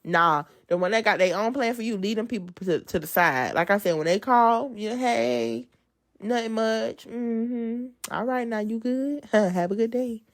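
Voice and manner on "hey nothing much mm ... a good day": light, sing-song phone small talk; polite brush-off. Acted. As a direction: politely keep the caller at a distance. Acts out brushing off a caller.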